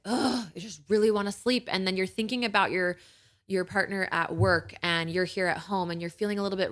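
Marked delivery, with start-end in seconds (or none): 0.1-1.7 a touch more frustrated inner voice; half-hearted groan of wanting sleep; mildly exasperated ugh; louder frustrated thought. Retold or imitated. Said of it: "the voice in your head gets a little bit louder".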